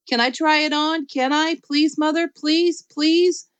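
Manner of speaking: put-on high pleading child voice; plead, please after please; begging. Junie B begging.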